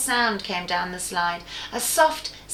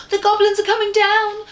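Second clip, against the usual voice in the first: 1 alarmed whisper; 11 semitones higher, 6 dB louder than usual. Acted. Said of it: "whispered Franny in alarm".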